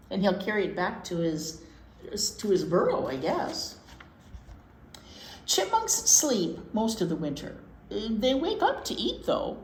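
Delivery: put-on reading to children. Host reading chipmunk book to listening kids, lilting story-time voice. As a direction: read it aloud like story time for little ones.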